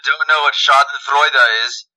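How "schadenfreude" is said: almost German accent. Real, not acted. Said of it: "I kinda say that in almost a German accent".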